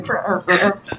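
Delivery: mock laugh that sputters like choking; imitated choking laugh. Asking if that was laughing, imitated choking laugh. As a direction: mimic someone laughing till they choke. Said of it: "That's what it sounded like".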